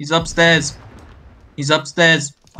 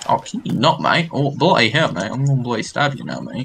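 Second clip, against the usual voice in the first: put-on British accent. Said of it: "British, mate".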